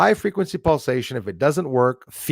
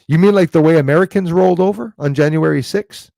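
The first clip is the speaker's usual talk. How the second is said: louder and higher, throwing it back; loud mocking retort; 6 semitones higher, 8 dB louder than usual. Real, not acted. Answering a viewer who doubts Canadians, loud and mocking. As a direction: challenge Paul with a scoffing question.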